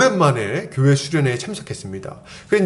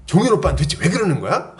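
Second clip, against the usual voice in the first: higher-pitched mock exasperation; retold indignant complaint; 4 semitones higher than usual. Young woman complaining to friends about an older guy, mock-indignant. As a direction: imitate someone fuming about a peer. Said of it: "막 화가 난 거예요".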